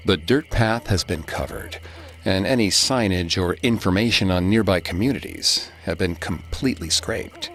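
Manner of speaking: measured ghost-story telling with long pauses; eerie story narration. A narrator's reading. Host telling the legend of Devil's Kitchen, eerie narration.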